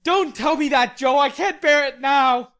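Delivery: Laurie shouting, fierce and high; fierce cry. A narrator's reading. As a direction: yell it in a fierce panic. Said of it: "cried out in a fierce tone".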